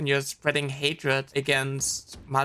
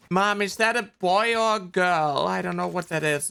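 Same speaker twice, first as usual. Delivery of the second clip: lightly voiced worried kid, higher in the middle; mock anxious child; 4 semitones higher than usual. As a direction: mimic a child puzzled and a touch anxious. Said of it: "scared and anxious and being like".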